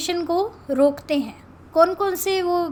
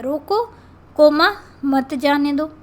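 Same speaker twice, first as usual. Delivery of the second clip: "रोको" alone, spoken comma, then "मत जाने दो"; comma after रोको; 4 dB louder, slower than usual. Shown as a demonstration. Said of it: "अब दो तरीके से इसको लिखा जा सकता है".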